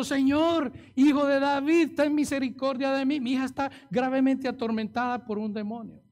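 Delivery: a preacher voicing a mother's shout; imitating her cry. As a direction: call out like a desperate mother, loud and high. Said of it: "Esta mujer está gritando".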